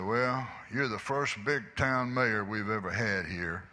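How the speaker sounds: a hint of a lieutenant mocking a prisoner; mock sarcastic. Lieutenant mocks the prisoner mayor, mildly sarcastic. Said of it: "just as sarcastically as he could".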